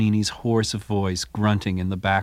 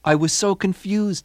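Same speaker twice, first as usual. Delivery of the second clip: voicing Toscanini; 9 semitones higher than usual. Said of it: "Toscanini admits".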